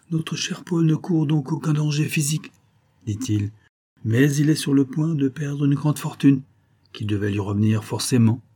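a soothing aristocrat with a lift in the voice; lightly voiced suave viscount.

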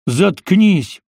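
loud snapped "Заткнись"; a sharp yell of disgust; barked shout. A narrator's reading. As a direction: bark it at him. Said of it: "рявкнул Грин".

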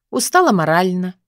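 ordinary delivery

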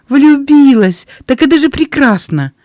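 high, loud echo of surprise turning to relief; delighted disbelief, then joy; relieved surprise. A narrator's reading. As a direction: pounce on the news with glad relief. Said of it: "С облегчением улыбнулась девушка".

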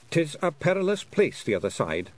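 measured Scottish warning; slow. A narrator's reading. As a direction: say it slowly, warning her. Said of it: "said Rob Anybody slowly".

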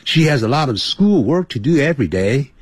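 practised, connected read-aloud with little pausing; fluent demo reading. Shown as a demonstration. Teacher showing learners an advanced reader's level, fluent connected reading. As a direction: run the sentences together smoothly and evenly. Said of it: "以我现在的程度来念".

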